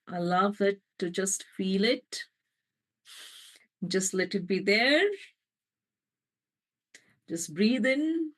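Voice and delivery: calm breathing guidance; guided meditation. Acted. Healer guiding listeners to breathe into the pain, meditation voice. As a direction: invite them to breathe in.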